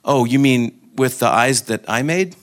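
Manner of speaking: pointed, playful mock question; God teasingly replying. God to the soul who can't look, gently teasing. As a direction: ask it with knowing emphasis, lifting at the end. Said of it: "And God goes".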